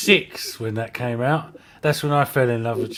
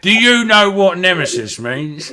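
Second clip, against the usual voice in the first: higher, louder hammed-up British film villain; film villain quote; 7 semitones higher, 8 dB louder than usual. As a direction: pitch it up and declaim like a movie gangster. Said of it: "go watch Snatch".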